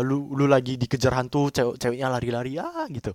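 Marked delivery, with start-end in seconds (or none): 2.6-2.9 mock scream. Asked how Jilian screamed, he imitates a short mock scream. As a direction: imitate the girl's scream briefly. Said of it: "Dia teriak gimana?".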